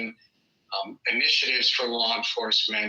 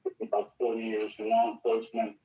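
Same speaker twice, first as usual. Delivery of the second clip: muddy voice; 4 dB quieter than usual. Real, not acted. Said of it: "like you're far away from the microphone".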